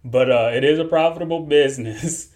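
the laugh slipping into the words; barely keeping it together, then cracking; trying not to laugh. Real, not acted. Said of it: "I'm trying my best not to laugh".

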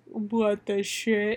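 slow, drawn-out disbelief; stunned reaction. Retold or imitated. Imagined stunned reaction to story.

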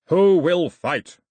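slow, very loud challenge; long bellowed call for a challenger; drawn-out yell. A narrator's reading. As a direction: yell it slowly, stretching each word. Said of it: "he yelled".

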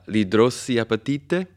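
"idrossiapatite" said slowly, sounding out the word; tentativo di pronuncia. Real, not acted. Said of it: "di sicuro non posso pronunciarlo". (prova incerta e lenta di pronunciare "idrossiapatite")

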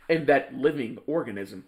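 mimicking a flat robot; flat monotone robot imitation. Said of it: "Why do you sound like a robot?".

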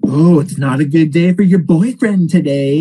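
a hint of a gloating psychiatrist; taunting doctor. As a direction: needle the patient like a smug doctor. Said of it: "she'll be like".

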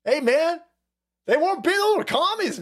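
grandfather pleading. Retold or imitated. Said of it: "he's like".

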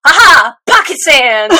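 a hint of Dale's triumphant yell; pocket sand. Quoting King of the Hill while Ling kicks sand, mock battle cry. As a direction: cry it out like throwing sand in a face. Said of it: "King of the Hill".

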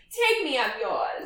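laughing through the words; laughing mock swoon. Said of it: "I'd be like".

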